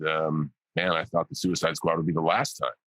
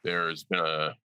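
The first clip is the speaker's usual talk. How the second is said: mock-solemn tribute, tongue in cheek; deadpan sarcasm with halting pauses; sarcastic; 2 semitones higher than usual. Real, not acted. Actor teasing the host about his role's legacy, sarcastic. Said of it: "being sarcastic early on".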